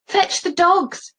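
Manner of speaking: high, slow, called order; shout. Acted. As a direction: shout across the storm. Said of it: "someone shouts".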